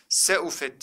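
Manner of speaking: "Seufet" starting with a light SE; wrong reading. Shown as a demonstration. Teacher quizzes students with a wrong reading. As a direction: open "Seufet" with S and E. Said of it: "diye okuduk mu?".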